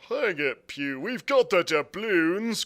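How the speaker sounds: slow grumbling retort; grumbling pirate. A narrator's reading. Pirate grumbling back at Pew, slow. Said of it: "grumbled one".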